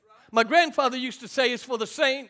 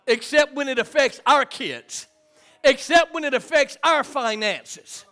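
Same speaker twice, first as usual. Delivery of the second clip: punchy preacher's refrain, louder; emphatic preaching; 4 semitones higher, 6 dB louder than usual. Real, not acted. Preacher warns families trouble hits home too, emphatic preaching. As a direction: drive each phrase home to the congregation.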